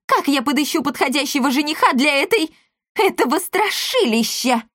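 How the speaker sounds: put-on high, wailing outrage of an old matchmaker; howling matchmaker. A narrator's reading. Matchmaker howls at the parents, high wailing protest. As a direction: wail it out in disbelief. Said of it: "взвыла сваха".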